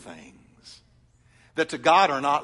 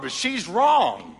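retold protest; 3 semitones higher, 4 dB louder, much slower than usual.

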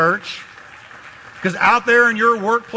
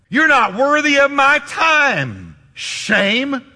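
defiant rebuke; 3 semitones higher than usual. Retold or imitated. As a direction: build up the contempt toward shame. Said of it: "Jesus would look at that emotion and say".

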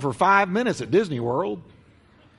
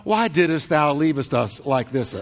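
mock pious mother; slower than usual. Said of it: "She's not saying".

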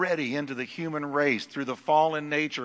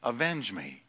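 soft, fading plea for vengeance; blood's plea; 3 semitones lower, 8 dB quieter than usual. Retold or imitated. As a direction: whisper the blood's cry from the ground. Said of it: "It says".

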